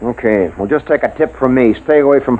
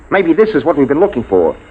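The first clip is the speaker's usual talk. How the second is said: higher and rushing as the idea hits; excited realisation; 3 semitones higher than usual. Acted. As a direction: caught up in a breakthrough, cut off mid-word.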